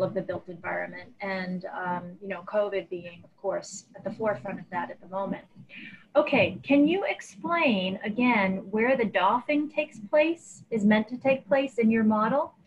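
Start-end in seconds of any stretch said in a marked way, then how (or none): 6.2-12.5 muffled, like a hand over mouth. Real, not acted. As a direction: speak through a covered mouth. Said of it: "you're a little muffled".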